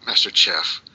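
slow, high, hammed-up Tex-Mex "Master Chef"; mock Tex-Mex accent. Shown as a demonstration. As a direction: stretch it out in a silly Tex-Mex voice. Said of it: "I meant Tex-Mex".

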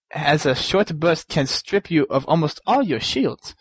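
a lightly hammed-up vampire accent reading the map layout; Count Dracula accent. Host goes back to reading the letter in a mock Dracula accent. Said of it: "so back to my Count Dracula thing".

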